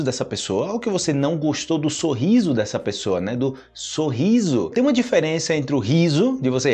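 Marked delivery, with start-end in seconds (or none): 3.4-4.7 slow repeat. Shown as a demonstration.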